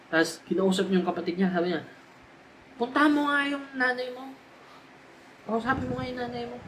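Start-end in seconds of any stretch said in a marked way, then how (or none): 2.8-6.6 higher, irritated order to a brother or sister; annoyed sibling. Retold or imitated. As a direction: snap the order out in a huff. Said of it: "kapag galit siya sa nanay niya". (naiinis na utos sa kapatid)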